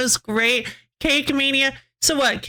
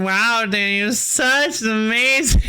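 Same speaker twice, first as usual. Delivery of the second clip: passive-aggressive. Pretend. Streamer imagining backhanded praise for Danny, passive-aggressive. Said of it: "imagine you're being passive aggressive".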